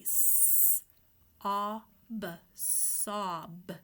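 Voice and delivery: "s-" then "ob" then "sob" blended; sounding out. Shown as a demonstration. Teacher blending sounds for young readers. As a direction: break "sob" into "s-" and "ob", then join. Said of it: "let's sound it out".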